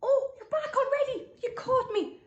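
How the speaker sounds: high, loud giggly surprise; laughing. Real, not acted. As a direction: caught out, laughing it off. Caught eating scones.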